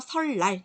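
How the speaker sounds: 설날 said as "seol-lal" with a double l; liquid assimilation. Shown as a demonstration. Teacher showing how it is pronounced, liquid assimilation. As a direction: turn the n of 설날 into l. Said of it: "이렇게 발음이 돼요".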